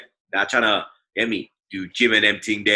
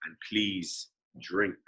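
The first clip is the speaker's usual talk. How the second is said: muttered disclaimer; 7 dB quieter than usual. Acted. Mumbled ad disclaimer.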